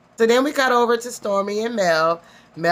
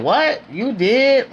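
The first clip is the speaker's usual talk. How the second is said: shocked; 5 semitones higher, much slower than usual. Retold or imitated. Tisha shocked at Wanda.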